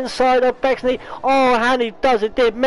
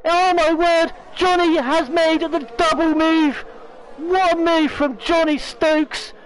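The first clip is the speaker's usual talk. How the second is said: excited; 5 semitones higher than usual. Real, not acted. Commentator reacts to big move.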